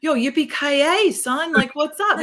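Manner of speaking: high, tripping over words like a fan; high-pitched fanboy stammer; starstruck stammer. Retold or imitated. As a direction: babble like an idiot to your hero. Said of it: "stuttering like an idiot".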